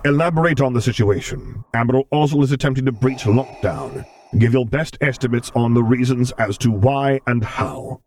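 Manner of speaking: cold, commanding dark lord; stern commander voice. Acted. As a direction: give orders like an imperial lord. Vader's voice in reading.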